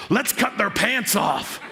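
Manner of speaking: drawn-out, hammed-up rallying cry; goofy gung-ho cheer, climbing high; overeager weird dude. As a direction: whoop it up, stretching the words. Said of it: "one weird dude who doesn't know when to stop".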